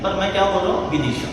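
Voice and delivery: ordinary talk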